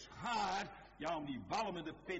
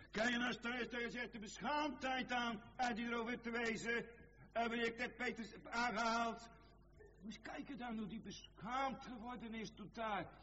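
high, urgent pulpit declamation; raised sermon voice, pitched well above speech; impassioned preaching; 10 semitones higher than usual. Acted. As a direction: preach it in a high, driving chant. Preaching at full force.

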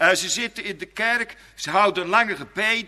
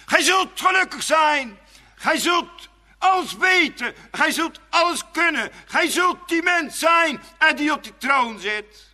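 hissing serpent promises; 7 semitones higher, 5 dB louder than usual. Acted. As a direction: sell godhood like a tempter. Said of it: "Sist hij dan en zegt".

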